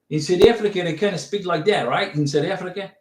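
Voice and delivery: attempted South African accent. Shown as a demonstration. Vlogger trying out his best South African accent for a viewer, amateur South African accent. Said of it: "that's the best South African accent I can do".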